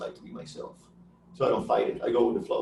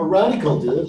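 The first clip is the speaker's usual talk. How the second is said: mock California surfer; 2 semitones higher, 5 dB louder than usual. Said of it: "like I'm from California".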